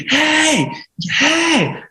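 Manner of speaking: imitated screaming, very high-pitched; Michael Dorf. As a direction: call after someone down the street. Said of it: "started screaming".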